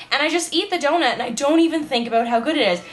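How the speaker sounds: raspy just-woke-up morning voice; hoarse morning voice, throat not yet cleared. Real, not acted. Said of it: "That's my morning voice there for all of you".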